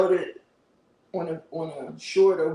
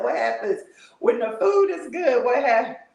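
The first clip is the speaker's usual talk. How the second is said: laughing through the words; 5 semitones higher, 4 dB louder than usual. Retold or imitated. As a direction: giggle as you ask it. Retelling her own remark, laughing.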